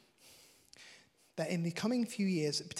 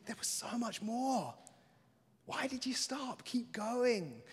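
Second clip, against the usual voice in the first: gentle encouragement; 6 semitones higher, slower than usual. Retold or imitated. Jesus to Peter, gentle encouraging urging. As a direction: coax him to keep going. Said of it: "Instead, he's saying".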